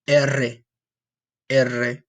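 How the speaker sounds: trilled "R" for the double R; rolled R. Shown as a demonstration. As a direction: roll the "R" fully. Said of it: "That's when you roll your R".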